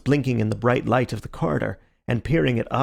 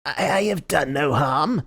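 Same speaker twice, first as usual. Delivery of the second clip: uneasy; 4 semitones higher than usual. A narrator's reading. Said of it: "gave an uneasy laugh, shrinking back".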